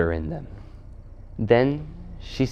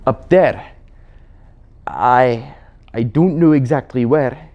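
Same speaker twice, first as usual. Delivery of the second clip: hint of a flustered but stubborn creature; Puddleglum the Marshwiggle; 3 semitones higher, 4 dB louder than usual. Marshwiggle answering the Queen where Narnia is, unsure. Puddleglum falters under questioning.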